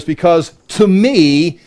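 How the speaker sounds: "to me" slow and weighted; emphatic. Acted. Satan claiming what was delivered, emphatic. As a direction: stretch out "to me" as a claim. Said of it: "So emphatically".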